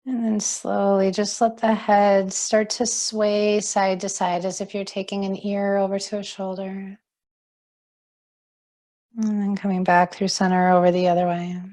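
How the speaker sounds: calm, unhurried yoga teacher voice; guided relaxation. Acted. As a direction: guide them gently into settling and breathing. Guides seated stretches.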